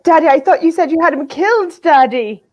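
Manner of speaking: put-on high, loud spoiled-child whine to daddy; whiny daughter. Mary Elaine whines to daddy.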